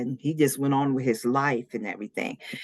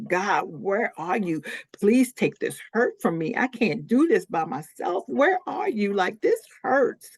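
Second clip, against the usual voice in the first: retold crying prayer, pitched up but not screamed; anguished plea; 6 semitones higher than usual. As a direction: plead upward, drawing out the hurt. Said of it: "screaming and crying like".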